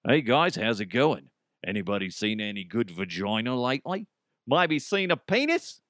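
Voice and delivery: casual mock Australian; Australian accent. Host joking to the guys, light Australian accent. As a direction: chat breezily with a put-on Australian accent. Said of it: "in an Australian accent".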